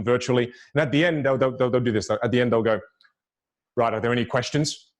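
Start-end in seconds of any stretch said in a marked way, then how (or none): 3.8-4.9 low-key, closed-off call for questions; mildly discouraging Q&A opener; closed, uninviting question. Acted. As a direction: ask for questions while wanting none. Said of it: "No, I don't want any questions".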